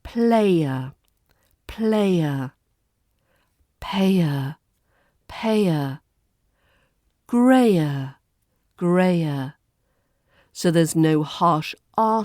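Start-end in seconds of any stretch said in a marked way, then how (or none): 0.0-2.5 British RP player. Shown as a demonstration. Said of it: "put them in the words". 3.8-6.0 British RP payer. Shown as a demonstration. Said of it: "put them in the words". 7.3-9.5 British RP grayer. Shown as a demonstration. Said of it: "put them in the words".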